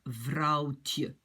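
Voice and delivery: "vrouwtje" with the ou glide, then "tje"; diminutive pronunciation demo. Shown as a demonstration. Teacher gives learners another example, pronunciation demo. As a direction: sound out "vrouwtje" for learners, ending on t-y. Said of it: "et on va dire".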